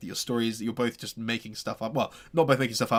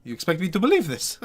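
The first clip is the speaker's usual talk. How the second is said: raised, louder mocking disbelief; scoffing burgomaster; 3 semitones higher, 6 dB louder than usual. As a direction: scoff at the absurd tale. Burgomaster mocks the story.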